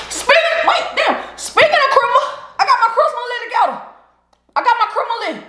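high, giggling banter; laughing. Real, not acted. Woman joking about her criminal list, high laughter. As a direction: joke along, laughing high.

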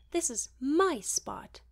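loud, high, slow mocking echo. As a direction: throw his words back in a mock voice. Hermione mimics Draco mockingly.

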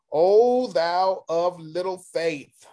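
scriptural rebuke. Acted. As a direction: proclaim it as a mild rebuke. Reading Jesus' rebuke to Peter.

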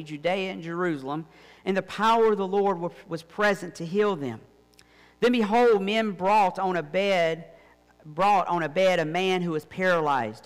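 measured Bible reading to the congregation; lifting the gospel verses into the room; scripture reading. Acted. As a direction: read the passage with weight and care. Reads scripture passage aloud.

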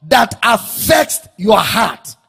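slow, weighty pulpit emphasis; emphatic preaching. Real, not acted. Preacher defining supplication to the congregation, emphatic. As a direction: drive each phrase home with pauses.

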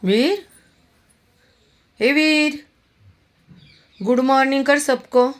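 very high, loud sing-song calls; chirpy morning greeting to a pet; cheery wake-up call. Real, not acted. Owner waking the dog for good morning, high cheery calls.

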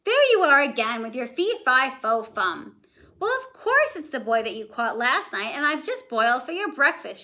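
mild exasperation; exasperated wife. Acted. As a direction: nag the forgetful giant. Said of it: "my voice changed".

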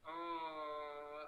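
long drawn-out cooing aww; touched "aww". Real, not acted. Streamer to viewer after a compliment, touched aww. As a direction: coo it, stretching the vowel.

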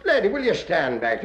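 usual speaking voice

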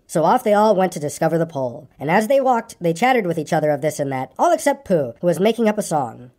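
story narration. A narrator's reading. Reader telling of Pooh's coming adventure, story narration. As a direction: read it to children as a bedtime tale.

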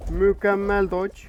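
slow, loud triumphant cheer; excited praise. Real, not acted. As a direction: stretch it out proudly. After narrowly dodging an obstacle.

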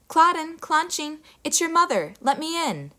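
a mother back home at the door; mother's voice. A narrator's reading. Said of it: "sounded exactly like the girl's mother".

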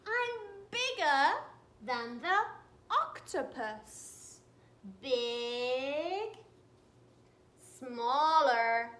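a lightly voiced proud squid, bragging; boastful giant squid. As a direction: puff up as a proud squid showing off.

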